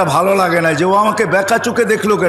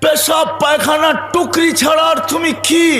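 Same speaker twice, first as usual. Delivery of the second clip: ringing rebuke; 6 semitones higher than usual. Acted. Holy man rebuking the proud king, ringing rebuke. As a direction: throw the question out high, word by word.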